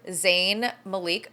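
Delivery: Malik said as "muh-LEEK"; "Malik" rhyming with "sleek"; mispronounced Malik. Real, not acted. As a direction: stress the second syllable of Malik, with a long "ee". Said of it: "I don't know why I always say Malik".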